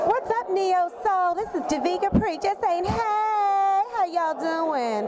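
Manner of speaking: high, slow cartoon character voice; animated cartoon voice. Shown as a demonstration. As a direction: do your cartoon voice. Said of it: "say "What's up," to Neo Soul in your animated voice".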